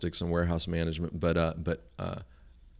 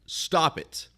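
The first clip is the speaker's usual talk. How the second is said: fed up; 7 semitones higher than usual. Retold or imitated. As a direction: tell the phone to stop, exasperated. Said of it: "I said".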